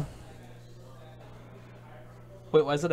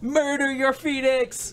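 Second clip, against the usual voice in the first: high, slow, drawn-out battle cry, much louder; dramatic cry; 12 semitones higher, 6 dB louder, much slower than usual. Real, not acted. Player urging on the attack on the phoenix, drawn-out shout. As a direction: howl it out like a bloodthirsty war chant. Egging on play in game.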